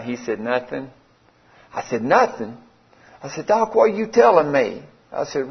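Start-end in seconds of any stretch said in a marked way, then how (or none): 0.4-0.9 quiet, matter-of-fact reply; retold doctor's low-key answer; understated grave answer. Doctor's flat answer in bad-news exchange. 2.0-2.6 mildly incredulous questioning echo; retold, understated disbelief; disbelieving echo. His disbelieving echo of doctor. 3.5-4.8 higher-pitched, incredulous question; retold shock, pitched up without shouting; retold disbelief. Retold disbelief at bad news.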